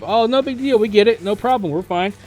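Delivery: easygoing teammate. Retold or imitated. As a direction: toss it off like a relaxed player who doesn't mind the wipe. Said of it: "People are always like".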